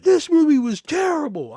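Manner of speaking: high, whiny complaining customer; mock customer voice. Customer griping to the clerk, high and whiny.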